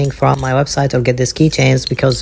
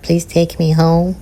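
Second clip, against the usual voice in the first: high, slow pleading toy voice; little mascot's high, slow plea; Pip Pip; 5 semitones higher, slower than usual. Acted. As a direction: beg to be adopted, pitched up and drawn out. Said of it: "He's like".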